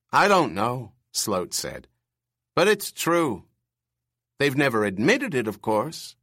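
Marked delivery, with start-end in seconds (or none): 0.1-0.9 put-on screechy old man. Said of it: "his bird screech voice". 2.6-6.2 put-on screechy old man. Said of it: "his bird screech voice".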